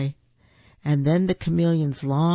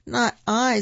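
smiling; 7 semitones higher than usual. A narrator's reading. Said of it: "smiles Mother Bear".

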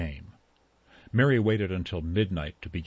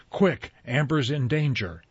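much higher, loud panicked urging; frantic cry; 7 semitones higher, 4 dB louder than usual. A narrator's reading. Mary begs the girls to save Amber, frantic cry. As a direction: push them to act before it's too late. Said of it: "Mary cried suddenly".

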